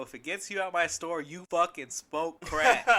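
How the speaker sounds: retold exasperated concession. Clerk getting customer out of store, exasperated. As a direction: give in loudly, stretching it out.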